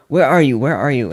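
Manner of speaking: a loud retold yell of where are you; loud phone yell. Restaurant worker yelling at the caller over the phone. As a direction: call out loud into the phone, annoyed.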